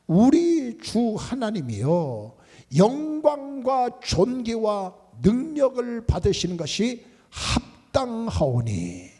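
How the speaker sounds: slow, drawn-out recitation; solemn scripture recitation. Shown as a demonstration. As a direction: lead the congregation word by word, slowly. Leads congregation in scripture recitation. (느리고 엄숙한 성경 낭독)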